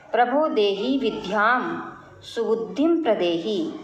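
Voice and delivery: measured, devotional verse reading; teacher reciting a Sanskrit prayer for the class; prayer recitation. Acted. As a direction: chant the prayer steadily, line by line.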